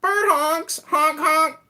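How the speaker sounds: high goofy honking cries; silly clown. Pretend. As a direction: honk like a cartoon bird.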